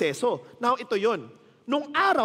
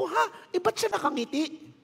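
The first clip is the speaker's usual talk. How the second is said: much higher, amazed mock reaction; retold astonishment; 8 semitones higher than usual. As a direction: act out your disbelief for the crowd. Retold shock at smiling patient.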